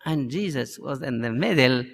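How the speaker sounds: usual speaking voice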